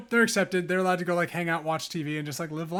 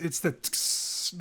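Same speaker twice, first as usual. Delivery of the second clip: stim click sound; 6 dB quieter, much slower than usual. Retold or imitated. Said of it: "I don't know if you can hear that in the microphone".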